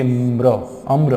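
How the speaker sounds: "म्र, अम्र" with म and र joined; no gap. Shown as a demonstration. Teacher showing there is no gap, sounds run together. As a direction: glide from म into र in अम्र without a vowel. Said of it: "आपने gap ही नहीं दी".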